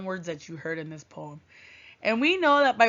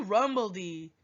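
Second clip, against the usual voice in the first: rumbledy repeated lower with a small laugh; rumbledy chuckled out, dropping lower; laughing echo; 4 semitones lower than usual. Pretend. Teacher echoing the sound word for the class, rumbledy with a laugh.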